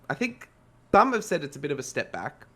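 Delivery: choking on a cough, trying to speak. Real, not acted. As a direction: push words out through a tickly throat. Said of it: "Sorry, I'm choking here".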